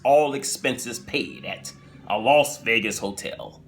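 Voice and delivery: slow, grave narrator voice; Rod Serling impression. Storyteller imitates the show's host intro, grave. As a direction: intone it like an eerie TV host. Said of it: "he says something like this here".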